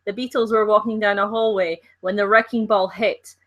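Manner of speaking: attempted Liverpool accent. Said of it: "You sound just like my ex".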